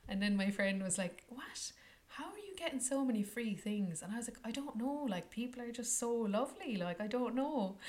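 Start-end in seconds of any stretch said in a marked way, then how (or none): 1.3-4.0 high, startled question; surprised friend. Retold or imitated. Friend baffled by all the free stuff, surprised. 4.4-7.8 high, innocent bafflement; playful shrug. Retold or imitated. Answering the friend's question, innocent shrug.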